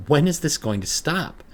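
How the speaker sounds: near-hysterical plea; frantic cry to herself; desperate panic. Acted. Panic alone in bathroom.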